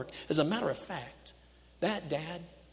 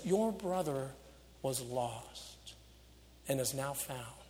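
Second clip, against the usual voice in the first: gentle fatherly. Acted. Father gently answers older son.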